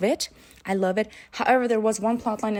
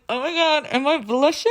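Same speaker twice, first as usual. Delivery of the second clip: 1 flustered gasp; 8 semitones higher, 5 dB louder than usual. Retold or imitated. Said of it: "And I'm like".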